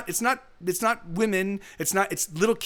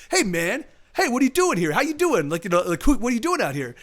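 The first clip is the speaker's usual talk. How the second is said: lightly voiced friendly tough guy, a bit higher and louder; jocular big guy; 4 semitones higher, 4 dB louder than usual. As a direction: play it matey but loom over him. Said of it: "he seems jocular and seems, like, friendly".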